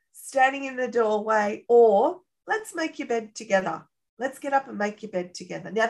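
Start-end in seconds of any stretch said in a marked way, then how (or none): 2.5-5.7 softly encouraging parent; gentle coaxing. Acted. Models gentle alternative to yelling.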